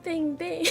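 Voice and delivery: soft bing bing; little finger gun noises; finger gun sounds. Pretend. Asked by chat for finger guns, soft finger gun sounds. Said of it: "Do finger guns?".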